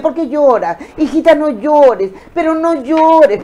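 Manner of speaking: mock an anxious mother hushing her crying daughter; a mother begging her little girl to stop crying; pleading mother. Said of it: "las mamás que siempre persiguen a sus hijos y le dicen".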